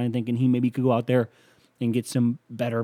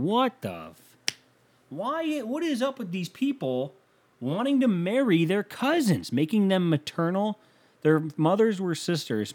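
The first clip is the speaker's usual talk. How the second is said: incredulous outrage; 8 semitones higher than usual. Real, not acted. Host appalled by Einstein marrying his cousin, incredulous high squeal. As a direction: voice shoots way up in disbelief.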